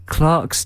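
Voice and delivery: "Clerks" said to rhyme with "parks"; British pronunciation. Real, not acted. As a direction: say "Clerks" with an ar vowel, like Clarks. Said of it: "I never know whether to say".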